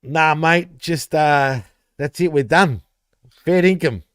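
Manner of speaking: put-on broad Australian; Ocker accent. Co-host signing off in mock Ocker Aussie. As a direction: lay on a little extra Ocker. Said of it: "that's called the Ocker accent".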